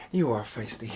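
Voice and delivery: panting after pillow fight; out of breath. Real, not acted. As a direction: speak between breaths. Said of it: "I'm out of breath already".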